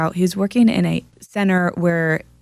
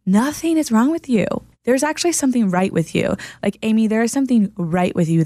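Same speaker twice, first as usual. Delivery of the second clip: emphatic reassurance; 4 semitones higher than usual. Real, not acted. Reassuring a friend's self-blame.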